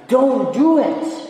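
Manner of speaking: high, loud pulpit cry; loud command. Acted. God forbidding the people through the preacher, loud command. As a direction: cry it out as an urgent prohibition.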